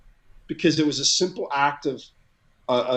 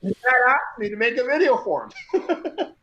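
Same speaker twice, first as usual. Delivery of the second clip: talking through real laughter, higher at first; tickled, chuckling between phrases; amused laughing; 6 semitones higher than usual. Real, not acted. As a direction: let the laugh break into the words. Amused at his own story's outcome.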